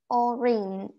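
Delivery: "Orange" said with an E in the second syllable; E-sound pronunciation. Shown as a demonstration. Teacher contrasts the English vowel, demonstrating pronunciation. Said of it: "we pronounce this as E".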